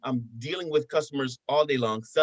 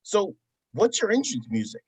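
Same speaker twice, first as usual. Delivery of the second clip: higher-pitched imitation of a kid; eager son; 5 semitones higher than usual. Son who is his biggest fan, higher kid imitation. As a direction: ask dad like an eager child. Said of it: "he's like".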